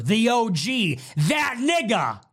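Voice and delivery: half-joking heated shout at the chat; boastful shout. Real, not acted. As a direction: shout it with swagger.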